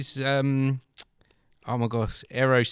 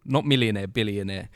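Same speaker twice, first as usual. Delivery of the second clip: high, breathless starstruck gush; starstruck excitement; 4 semitones higher than usual. Retold or imitated. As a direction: gush like a stunned fan. Retold starstruck reaction.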